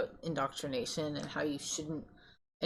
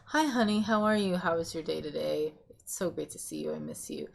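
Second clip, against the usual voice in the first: mock-sweet honey voice; sweet greeting. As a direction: greet your partner lovingly, gently. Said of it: "rather than like".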